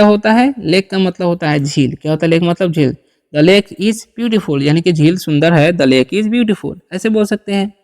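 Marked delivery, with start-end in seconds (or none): 3.3-4.6 very slow, word by word; spelled-out dictation pace; slow model reading. Shown as a demonstration. Teacher models English sentence. 5.7-6.8 very slow, word by word; spelled-out dictation pace; slow model reading. Shown as a demonstration. Teacher repeats model sentence.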